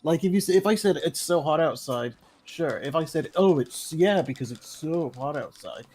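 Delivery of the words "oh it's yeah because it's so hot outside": dripping sarcasm, not meant; sarcastic. Shown as a demonstration. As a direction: say it like you hate the heat. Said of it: "obviously that's sarcasm".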